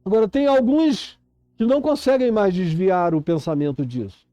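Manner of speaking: urgent, insistent sermon delivery; impassioned preaching. Real, not acted. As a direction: preach it with rising urgency, stretching the key words.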